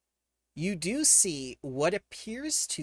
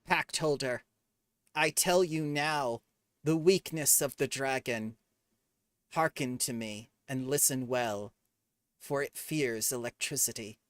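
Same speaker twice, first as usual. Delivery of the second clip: ominous fae voice. Acted. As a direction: intone it like an ancient fae. Fae gives a warning.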